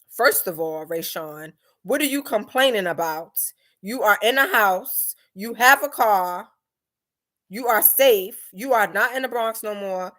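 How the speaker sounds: lightly voiced cutthroat mother, point by point; straightforward scolding mom. Mother humbling her complaining daughter, mildly imitated straight talk. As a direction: imitate a no-nonsense mom counting blessings. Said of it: "cutthroat. My mom, she would be like".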